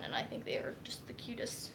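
soft whisper, fond and gushing. Real, not acted. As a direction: whisper it like a secret delight. Gushing about cute puppy knives.

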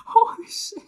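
very high, loud screaming in fright; terrified scream. Real, not acted. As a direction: scream through a jump scare. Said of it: "I was not expecting to scream".

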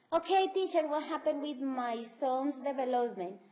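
energetic parent demanding an answer; angry worried parent. Acted. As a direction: press the teacher for an answer. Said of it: "Ellos enérgicos, bravos, preguntando".

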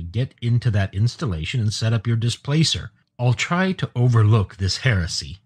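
mildly angry, firm command. Acted. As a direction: order them about, a touch of anger. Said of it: "Pid said angrily".

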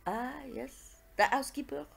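put-on knowing French-accented detective; gently sceptical Belgian sleuth; Poirot. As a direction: answer slyly in a French accent. Poirot answers the objection.

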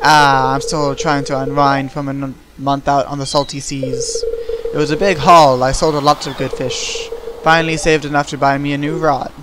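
a hint of a pirate fisherman; salty fisherman voice. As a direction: greet the newcomer like a weathered seadog. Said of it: "give them little voices".

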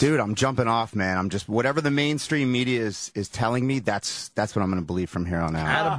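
low, resigned-sounding sarcasm; sarcastic. Real, not acted. Caller telling the hosts he's quitting the questions, sarcastic. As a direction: give in sarcastically, pitch sinking low. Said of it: "he sounds sa-, sarcastic".

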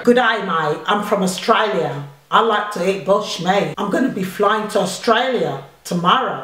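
put-on Australian accent. Mum taking her turn in the challenge, put-on Australian. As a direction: try a measured Australian accent. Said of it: "Australian accent".

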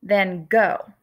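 "Van Gogh" with a long "go" and no final sound; American "Van Gogh", a plain "go"; American pronunciation. Shown as a demonstration. Teacher giving kids the familiar version, pronouncing it. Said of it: "you may have heard of him as".

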